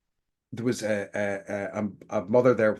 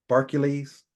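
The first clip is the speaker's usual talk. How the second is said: ordinary talk, nothing marked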